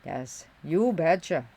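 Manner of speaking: slow Minnesota accent, vowels carried; drawn-out Minnesota twang. Shown as a demonstration. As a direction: carry those vowels like a Minnesotan. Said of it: "Just carry those vowels".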